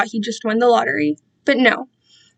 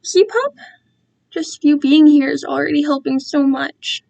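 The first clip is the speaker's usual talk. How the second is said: gushing captor; 4 semitones higher than usual. Acted. Captor delighted.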